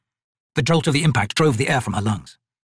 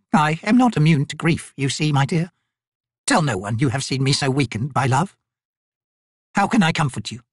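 ancient raven spirit; 5 semitones higher than usual. Acted. Raven Crone counselling the grieving Maibi, high and solemn. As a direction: speak like a wise ancient bird.

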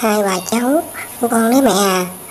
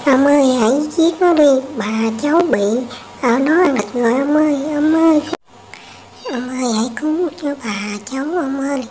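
higher, urgent cries for help; pleading cry; 4 semitones higher than usual. Acted. Girl crying out to the hunter to kill the tiger, high and desperate. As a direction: beg the old man to save grandma.

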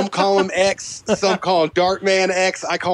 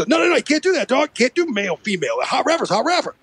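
insistent rapper impression; mock rapper laying down the law; 5 semitones higher, faster than usual. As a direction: imitate a rapper objecting in quick bursts. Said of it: "the only impression I can fucking do".

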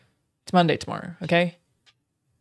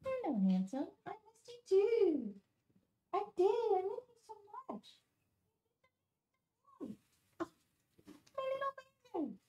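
doting pet talk; 10 dB quieter than usual. Real, not acted. Doting on her dog, very high cooing voice. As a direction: melt over the dog in a very high coo.

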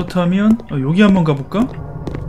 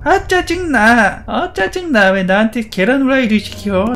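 high, drawn-out whine of a put-on female character; Chica; 3 semitones higher, slower than usual. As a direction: play an annoyed girl complaining about her chore. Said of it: "치카는 여자죠?". (짜증 내는 여자 캐릭터 흉내, 높게)

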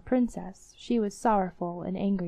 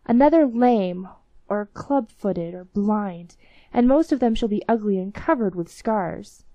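a lightly voiced master giving stern orders, louder; commanding master; 5 dB louder than usual. Master commands the ring genie, lightly voiced stern orders. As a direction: order the genie about, firmly and a bit louder.

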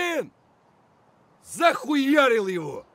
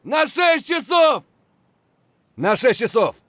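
shouted callout; 5 dB louder than usual. Acted. Soldier warning of enemy behind, shouting. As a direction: yell it to the squad.

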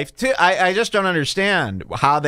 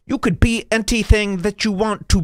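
mocking goody-two-shoes; 7 semitones higher than usual. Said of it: "they get choppy".

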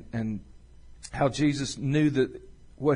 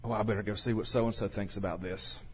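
a hint of a worried disciple, much softer; fretful disciple; 5 semitones lower, 10 dB quieter than usual. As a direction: lightly voice a fussing disciple, hushed and hesitant. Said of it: "I can imagine".

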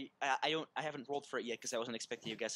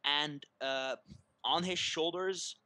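slow, ominous scene setting; game master narration; slower than usual. Acted. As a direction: build the looming threat slowly.

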